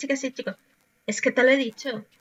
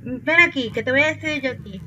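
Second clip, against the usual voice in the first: louder, mock threatening call; mock telling-off; 3 semitones higher, 5 dB louder than usual. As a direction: summon him for a scolding. Confronting the noisy neighbour. (regañina fingida, más fuerte)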